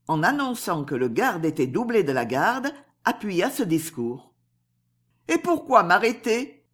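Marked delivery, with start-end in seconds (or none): 5.3-6.7 innocente. Acted. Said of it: "dit innocemment Esther".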